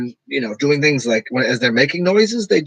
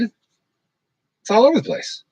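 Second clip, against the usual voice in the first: slow, much higher, swooping pitch; animated voice; 9 semitones higher, much slower than usual. Shown as a demonstration. Showing how animated speech swings in pitch. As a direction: let the pitch jump all over. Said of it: "But if I'm being animated".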